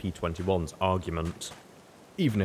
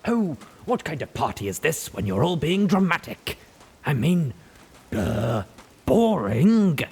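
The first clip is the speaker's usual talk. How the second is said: bored; 7 semitones higher, 6 dB louder than usual. A narrator's reading. Rampage bored with drama.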